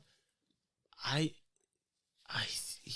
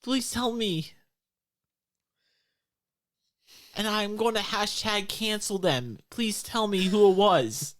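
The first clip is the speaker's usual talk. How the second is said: desperate pleading; 9 semitones higher, 4 dB louder than usual. Acted. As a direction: beg hard to be told, pitch up high. Game master's character pleads for answers.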